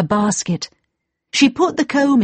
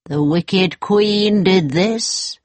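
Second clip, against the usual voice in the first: dwarf; slower than usual. Acted. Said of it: "said the first dwarf".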